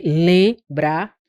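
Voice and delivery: LEMBRAR as a long nasal "lẽ", then "brar"; som nasal demonstrado. Shown as a demonstration. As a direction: hold the nasal E in LEMBRAR before the second syllable. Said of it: "ele tem um som de E". (LEMBRAR com "lẽ" nasal alongado, separado de "brar")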